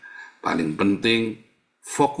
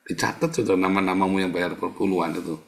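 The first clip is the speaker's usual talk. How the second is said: hurried whisper; 2 semitones lower, faster than usual. Retold or imitated.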